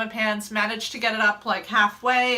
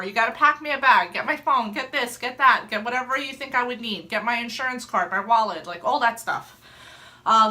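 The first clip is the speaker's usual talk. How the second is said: urgent instructions. Retold or imitated. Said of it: "I said".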